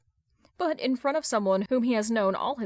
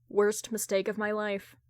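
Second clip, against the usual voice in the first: usual speaking voice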